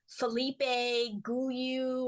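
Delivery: FELIPE GOULIOU, said with an extra syllable, as a clueless reader would; mispronounced French name. Retold or imitated. Student recalling her wrong guess at the teacher's name, mispronounced. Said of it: "I was pronouncing his name as".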